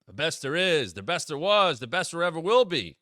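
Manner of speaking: mock reverent tribute, each line falling; lightly sarcastic Gunther quoting Bret's line; sarcastic praise. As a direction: lay the compliment on with a sneer underneath. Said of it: "there was sarcasm, but he talked up Bret".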